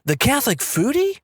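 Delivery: rising to a high squeal on foodie; amazed to recognise him, voice climbing; delighted surprise. Retold or imitated. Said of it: "looks at me and goes".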